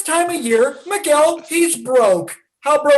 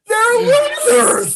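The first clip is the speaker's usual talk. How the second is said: punchline shout; 11 semitones higher, 3 dB louder, much slower than usual. Acted. Punchline yelled at the crowd.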